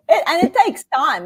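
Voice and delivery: laughing through the words; light laugh while talking. Real, not acted. Laughing at joke about being born.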